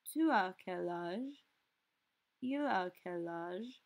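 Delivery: slow, careful questions; slow model phrases. Shown as a demonstration. Teacher going over the forms for students. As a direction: model each form slowly. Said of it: "So we have".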